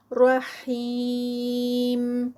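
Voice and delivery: رحیم with the یا drawn out very long, four counts; stretch at the stop. Shown as a demonstration. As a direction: hold the یا of رحیم for four counts when stopping. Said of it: "four counts کا stretch stop پر". (رحیم میں وقف پر چار حرکات کا مد)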